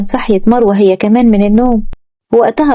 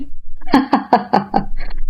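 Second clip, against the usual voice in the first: short airy laugh; a quiet chuckle before speaking; quiet laughing breath; soft laugh; 5 dB quieter than usual. A narrator's reading. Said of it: "ضحك زياد".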